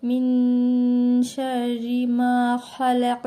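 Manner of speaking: slow recitation with nasal ghunna on মিন; drawn out, melodic tajweed reading. Shown as a demonstration. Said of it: "মিনটা গুণনা হবে". (গুন্নাসহ ধীর তিলাওয়াত)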